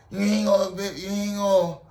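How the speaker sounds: Drill Sergeant Kickass. Retold or imitated. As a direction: lay down the law as a put-on drill instructor, without shouting. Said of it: "He was like".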